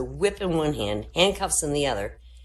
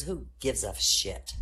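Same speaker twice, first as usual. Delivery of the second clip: slow drugged mom; 4 semitones lower, 4 dB quieter, slower than usual. Acted. Tranquilized mom, slow punchline.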